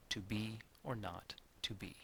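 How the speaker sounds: "To be or not to be", softly, parted into pairs; measured iambic beat. Shown as a demonstration. Teacher showing words arranged on the beat, soft stress on be, not, be. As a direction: softly place beats on "be", "not", "be", pausing between pairs. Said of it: "arranged them on the iambic pentameter".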